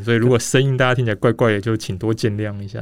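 muffled behind a mask; through a face mask. Real, not acted.

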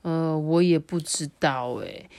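put-on slow, understated dejected boy; a touch of glum helplessness, slowly; mildly sad. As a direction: voice a saddened beetle boy, drawn out. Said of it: "伤心地说".

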